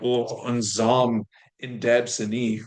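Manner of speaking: slow, careful Oh, nzam in deb sani; slow model phrase. Shown as a demonstration. Teacher gives an example phrase to learners. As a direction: sound out the phrase slowly. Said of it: "Or like".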